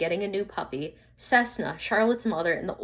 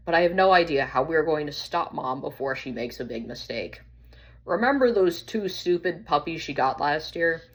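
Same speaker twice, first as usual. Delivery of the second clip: worried pack leader, lightly voiced; poodle Spark. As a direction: warn the other dogs urgently.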